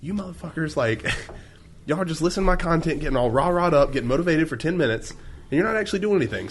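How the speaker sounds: yelling at listeners. Retold or imitated. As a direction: call out the listeners, fired up. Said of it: "he got on the mic and yelled".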